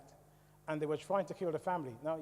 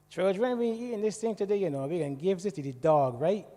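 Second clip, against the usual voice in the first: wife's voice on request; 2 semitones higher, 5 dB louder than usual. Retold or imitated. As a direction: call the children like his wife does, pitched up. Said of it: "you want me to say it with a Asian accent".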